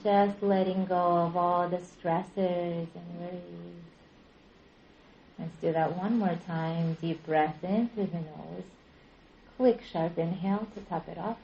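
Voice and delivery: calm, unhurried meditation guidance with long pauses; measured relaxation-class voice, leaving space between phrases; guided yoga nidra. Real, not acted. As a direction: guide them gently into rest, drawing out phrase endings. Leads yoga nidra practice.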